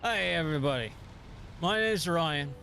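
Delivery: hearty pirate voice, pitch swooping up. Acted. Streamer introducing himself on a viewer's request, in pirate voice. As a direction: talk like a rum-loving pirate. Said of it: "I need to talk like a pirate".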